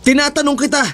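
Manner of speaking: high-pitched, insistent demand; alarmed, high-voiced confrontation; urgent questioning. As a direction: call after someone, pitched well up. Andrew confronts Sarah leaving.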